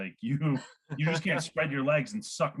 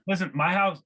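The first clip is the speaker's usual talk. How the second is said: shouted catchphrase; 4 semitones higher, 6 dB louder than usual. Acted.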